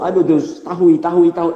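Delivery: mock rising panic. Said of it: "Aumentar sua emoção".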